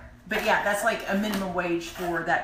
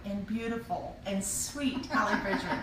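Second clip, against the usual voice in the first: gushing red carpet chatter; 3 semitones higher than usual. Acted. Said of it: "gushing red carpet chatter".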